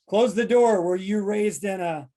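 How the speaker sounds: mock parental nagging; scolding parent. Acting out a parent saying.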